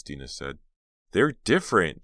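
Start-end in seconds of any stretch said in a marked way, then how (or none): 1.1-2.0 impatient. Acted. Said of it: "Jade replied impatiently".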